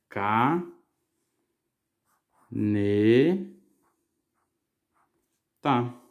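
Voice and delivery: "Ca, ne, tá" as isolated syllables, long pauses between. Shown as a demonstration. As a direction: dictate "Ca, ne, tá" one beat at a time. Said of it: "separando as sílabas".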